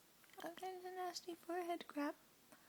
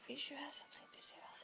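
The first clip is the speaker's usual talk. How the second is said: whispering; 3 dB quieter, faster than usual. Real, not acted. Whispers throughout.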